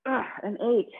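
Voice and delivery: straining grunt, pushing out the count; effort grunt. Real, not acted. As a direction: grunt through the last rep. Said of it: "Sorry for all the grunting".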